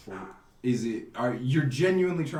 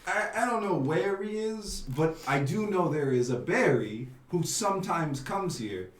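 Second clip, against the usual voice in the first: put-on Italian accent. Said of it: "I do one Italian accent".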